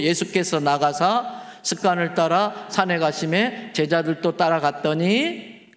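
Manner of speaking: slow, measured reading of the verse; scripture reading. Acted. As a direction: read the verse deliberately to the congregation.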